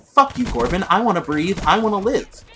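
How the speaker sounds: high, loud complaining snake voice; a trapped snake begging to breathe, pitched high; voicing the snake. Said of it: "you know what the snake said?".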